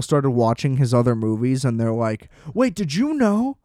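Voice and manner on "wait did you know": higher-pitched imitation of shocked viewers; mock astonishment. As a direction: play someone breathlessly breaking old news. Mimics people making a supposed discovery.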